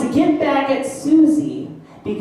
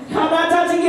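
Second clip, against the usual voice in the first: put-on teasing kid; 5 semitones higher, faster than usual. Shown as a demonstration. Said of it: "Everyone help her".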